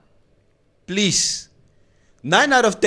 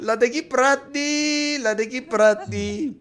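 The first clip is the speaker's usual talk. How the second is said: laughing, lost for words; 4 semitones higher, much slower than usual. Retold or imitated. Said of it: "Now I'm like".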